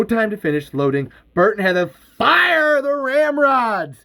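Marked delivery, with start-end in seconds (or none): 1.3-4.0 higher, slowed climactic narration; excited narration. A narrator's reading. Narrator as the heroes fire ramrods, excited. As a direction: stretch out the big action beat.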